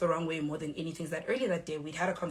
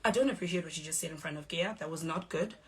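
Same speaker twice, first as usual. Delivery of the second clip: composed, measured objection; calm retold reproach. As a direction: state it calmly, without heat. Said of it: "I went to her calmly".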